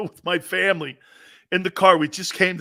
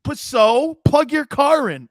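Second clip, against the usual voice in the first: mock snowflake scold; 8 semitones higher, 7 dB louder, slower than usual.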